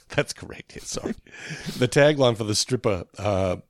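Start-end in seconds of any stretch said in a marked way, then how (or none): 0.0-1.1 laughing. Real, not acted. Laughing at the word.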